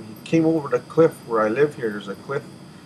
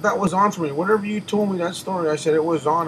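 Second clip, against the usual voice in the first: excited insistence; 5 semitones higher, 4 dB louder than usual. Retold or imitated.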